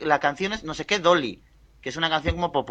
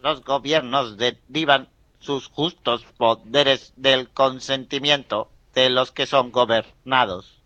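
slow, even text-to-speech reading; synthesizer voice; slower than usual. Pretend. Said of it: "imito bastante mal al festival".

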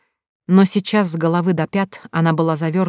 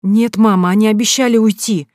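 insisting; 5 semitones higher, 5 dB louder than usual. A narrator's reading. Daughter insists.

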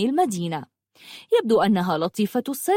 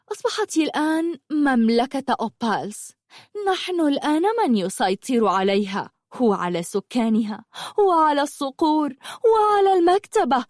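boasting witch; 5 semitones higher than usual. Acted. Witch boasting her sisters rule everything, triumphant. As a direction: gloat over the conquest.

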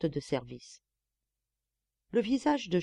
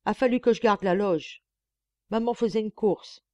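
a lightly voiced boy, drawling his excuse; 3 semitones higher, 5 dB louder than usual. The boy drawls his excuse to Eugénie, lightly voiced. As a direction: drag the words out, lazy and sheepish. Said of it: "s'excusa d'une voix traînante".

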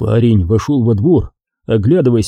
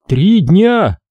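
high, shocked echo; astonished exhale; 8 semitones higher than usual. A narrator's reading. Son learning of the burial days late, astonished exclamation. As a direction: repeat it in raised disbelief. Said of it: "удивлённо выдохнул Сашка".

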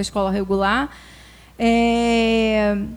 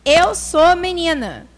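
put-on louder, slow child's outburst; a child yelling in protest, slow and louder; child's shout; 5 semitones higher, 7 dB louder, slower than usual. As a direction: shout it back like a cornered child. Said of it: "Aí ele gritou".

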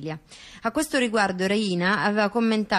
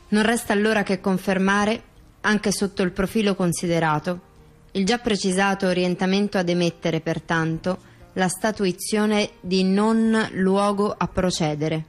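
formal reading. Acted. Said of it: "ti rileggo di nuovo questa sentenza".

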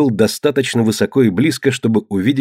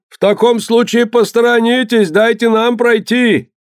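ship captain voice; 12 semitones higher than usual. A narrator's reading. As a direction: hail them to stand aside. Other captain demanding.

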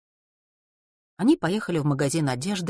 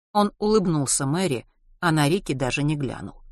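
usual speaking voice

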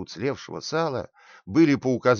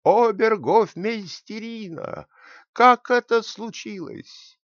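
much higher, louder, slow furious yell; angry shout; 11 semitones higher, 6 dB louder, slower than usual. A narrator's reading. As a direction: bellow the question in royal rage. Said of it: "Рассерженный король вскочил и громко закричал".

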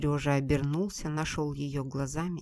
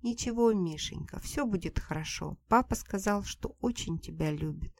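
soothing; 4 semitones higher than usual. Acted. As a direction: comfort the little boy while holding him. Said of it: "приговаривая".

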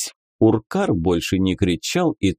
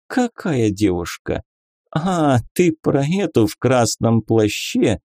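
higher, teasing lady; lady inquisitor voice; 4 semitones higher than usual. Acted. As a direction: play a coy, mocking lady. Beatrisa, playful inquisitor lady. (игривая дама-инквизитор)

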